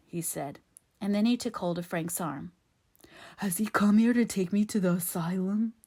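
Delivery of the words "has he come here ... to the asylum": anxious simple-minded dialect voice; frightened simpleton Ben. A narrator's reading. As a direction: ask fearfully, like a simple soul. Ben's simpleton voice.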